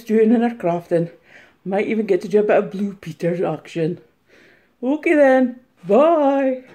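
lightly hammed-up reseller vlogger; mock reseller. Impersonator sends up a YouTube reseller, lightly mocking. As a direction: do a teasing take on a chatty reseller. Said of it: "taking the mick out of one of the resellers".

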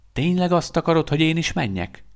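can't believe his ears; disbelieving. A narrator's reading. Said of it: "hitetlenkedett Veszter".

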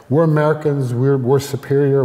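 mock a nation convinced it is superior; lightly hammed-up boastful American; mock superiority. Voicing America's superior ideology.

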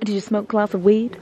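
lightly put-on American accent. Uber driver questioning a passenger about Amsterdam, mock American accent. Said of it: "I just went American".

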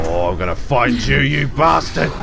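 furious shouting. Real, not acted. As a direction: scream vengeance at him. Raging at the kidnapper.

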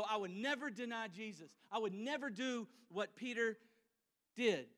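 lightly mocking smug vow with never leaned on; mock self-righteous. The preacher mimics believers vowing they would never deny Jesus, mildly mocking. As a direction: poke fun at our own pride. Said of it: "we like to sit here and go".

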